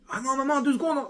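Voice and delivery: high, lightly voiced kid begging for time; a hint of a child whining; child pleading.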